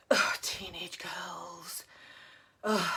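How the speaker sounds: a slow, breathy, exasperated ugh; exasperated groan. Real, not acted. Exasperated about teenage daughter.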